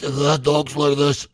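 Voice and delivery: slow hammed-up impression of the friend; imitating the guy. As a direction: drag it out in a mock dude voice. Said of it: "he talks like this".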